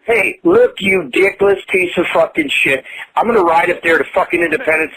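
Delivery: furious threat. Real, not acted. Angry man threatening the prank caller, furious shout. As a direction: threaten him at full volume.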